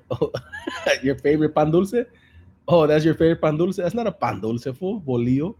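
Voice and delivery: loud, high, incredulous questioning; amused disbelief. Real, not acted. Mocking friend's mixed-up bread word, loudly incredulous. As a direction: call him out in delighted disbelief. Teasing disbelief at the bolillo slip.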